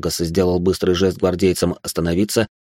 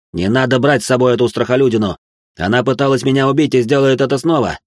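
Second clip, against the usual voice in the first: indignant protest; 5 semitones higher, 4 dB louder than usual. Acted. Alyoshin keeps protesting.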